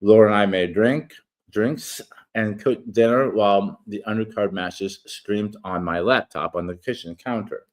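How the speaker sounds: steady read-aloud narration; reading an essay. Acted. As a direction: read the article aloud, measured. Reads his article aloud.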